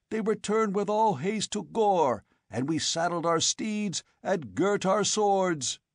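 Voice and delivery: enraged accusation. A narrator's reading. Old chief accusing, enraged.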